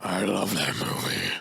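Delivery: hammed-up drummer impression, halting and grand; a famous drummer. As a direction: intone it in pieces, reverently. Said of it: "do the really good drummer impression".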